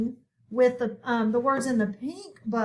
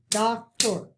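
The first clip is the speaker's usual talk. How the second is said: "Doctor", "tractor", "actor" split into two clear beats each; syllable by syllable; 3 semitones lower than usual. Shown as a demonstration. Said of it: "let's hear the syllables".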